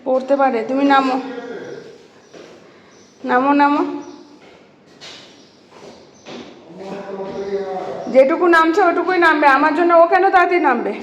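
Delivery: calling loudly to someone getting down. Real, not acted. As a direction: shout out so they hear you from afar. Calling out to family member.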